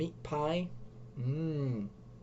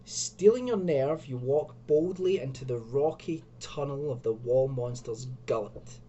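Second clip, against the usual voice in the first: story narration. A narrator's reading. Reads gamebook passage aloud.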